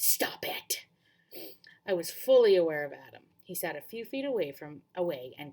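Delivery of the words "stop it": sharp whispered stop it; hissed whisper. Acted. Girl hushing her teasing friend on the raft, whispered. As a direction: hiss it under your breath. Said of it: "hissed under my breath".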